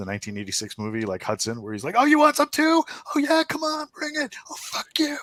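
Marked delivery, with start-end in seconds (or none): 2.0-5.2 put-on very high, full-throated, top-of-the-lungs battle scream. Voicing a character swinging a club at enemies: screaming at the top of lungs. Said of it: "he's just screaming at the top of his lungs".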